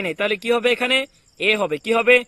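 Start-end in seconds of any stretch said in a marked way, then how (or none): 1.8-2.2 loud quiz question. Real, not acted. Teacher quizzing viewers.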